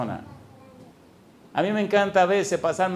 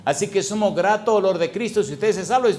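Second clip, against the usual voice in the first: rising preaching. Acted. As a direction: push it up to the climax.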